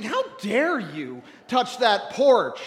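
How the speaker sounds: angry sad. Retold or imitated. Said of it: "And now I was angry sad".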